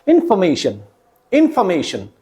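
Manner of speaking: इन्फॉर्मेशन as in-fuh-MAY-shun; weak FOR syllable. Shown as a demonstration. Teacher modelling correct word for students, इन्फॉर्मेशन with weak fuh. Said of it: "for की जगह फे हो जाएगा".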